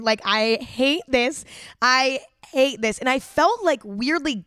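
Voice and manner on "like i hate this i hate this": drawn-out, slow stress on "hate"; emphatic disgust. Retold or imitated. Recalling her hated first kiss, emphatic disgust. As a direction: lean long and hard on each "hate".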